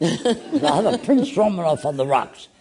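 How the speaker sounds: a bar order spoken through a laugh; amused customer ordering Prince Romanov; laughing mock order. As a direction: laugh at the silly name while ordering it. Mock ordering his rejected name.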